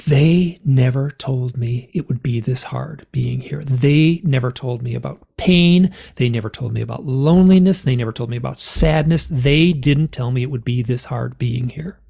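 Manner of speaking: imitating a tearful protest without the sobs; retold breakdown. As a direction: lean hard on each grievance. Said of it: "I completely broke down, started sobbing and swearing".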